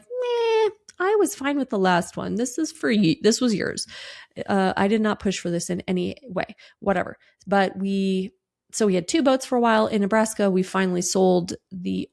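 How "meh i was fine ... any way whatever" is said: mock dismissive. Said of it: "I'm like".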